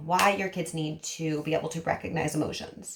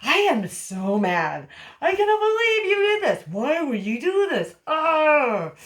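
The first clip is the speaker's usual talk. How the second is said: much louder and higher, furious demo; showing mad; 7 semitones higher, 6 dB louder than usual. Shown as a demonstration. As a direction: blow up at them, sound truly fed up. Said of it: "So let's do mad".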